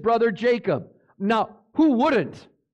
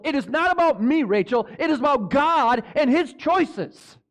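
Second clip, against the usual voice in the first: indignant preacher-acted rebuke, building higher; Jacob's burning anger; 4 semitones higher than usual. Preacher as Jacob rebuking his wife Rachel, angry. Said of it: "Jacob's anger burned against Rachel".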